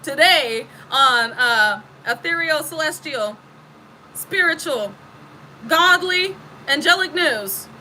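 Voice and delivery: newscaster voice. Pretend. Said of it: "I'm a divine newscaster".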